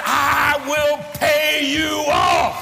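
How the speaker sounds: slow, loud, drawn-out vow; hollering. Retold or imitated. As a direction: shout each word at the devil. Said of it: "I hollered louder than he did".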